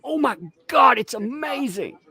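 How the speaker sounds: mock reporter. Streamer pranking camera crews as high gushing reporter. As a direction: play an overexcited TV reporter. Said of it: "I'd be like".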